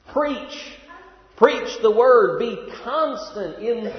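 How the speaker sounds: "Preach" punched high and loud, then "Preach the word" loud and slow; emphatic preaching. Shown as a demonstration. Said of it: "What's Paul's emphasis?".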